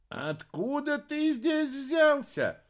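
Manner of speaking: very high, slow wondering question; drawn-out, marvelling; curious witch. A narrator's reading. Arimana asks the great chief, slow and wondering.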